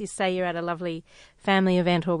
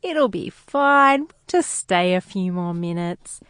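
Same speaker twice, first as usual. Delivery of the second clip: dreamy optimism; 4 semitones higher, slower than usual. Retold or imitated. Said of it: "I'm like".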